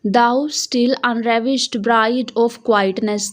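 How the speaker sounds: very slow, drawn-out recital; poem reading. Shown as a demonstration. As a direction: stretch each word like a poem reading. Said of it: "यहाँ लिखा हुआ है".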